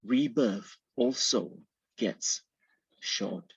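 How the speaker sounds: measured poetry reading with pauses at line breaks; poem recitation. Acted. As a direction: recite the poem in deliberate, separate phrases. Author reads own poem aloud.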